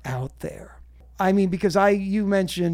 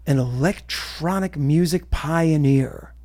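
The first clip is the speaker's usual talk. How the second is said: announcer voice; 4 semitones lower than usual. Pretend. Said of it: "I'm gonna do it in the announcer voice".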